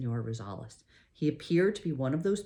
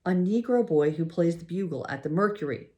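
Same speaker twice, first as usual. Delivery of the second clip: blurted out; 4 semitones higher, 6 dB louder than usual. A narrator's reading. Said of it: "I blurted out".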